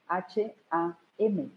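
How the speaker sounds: H A M spelled slowly, letter by letter. Shown as a demonstration. Teacher spelling the mantra for listeners, slowly. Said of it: "que se pronunciaría".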